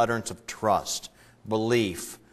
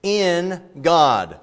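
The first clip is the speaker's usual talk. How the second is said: higher, louder, slow mock claim of faith; smug believer; 8 semitones higher, 7 dB louder, much slower than usual. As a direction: say it like someone sure of themselves. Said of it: "And so you say".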